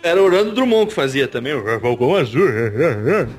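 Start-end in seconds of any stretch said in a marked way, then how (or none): 1.5-3.3 supermarket announcer voice. Retold or imitated. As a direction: boom it like a store PA ad. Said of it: "Falcão Azul falava assim como um locutor de supermercado".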